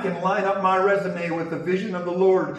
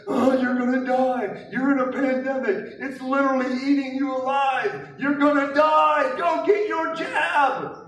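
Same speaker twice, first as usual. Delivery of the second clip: mock a fear-mongering preacher, building to a yell; mocking Abaddon preacher; 4 semitones higher than usual. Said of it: "as Abaddon is preaching".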